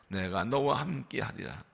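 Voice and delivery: 너와 said gently, low and soft; soft repeat. Shown as a demonstration. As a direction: repeat quietly as a reflection. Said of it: "repeated softly".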